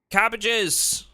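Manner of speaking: high, loud cry of delight; thrilled, high-pitched and loud; excited exclamation. Real, not acted. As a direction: exclaim it like treasure found. Thrilled at finding cabbages.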